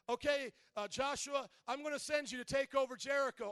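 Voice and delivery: lightly voiced God giving orders; God speaking. God voiced in Bible retelling.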